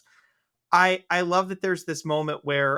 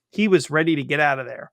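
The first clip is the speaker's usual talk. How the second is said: whispering; 4 dB louder than usual. Real, not acted. Whispered aside about character.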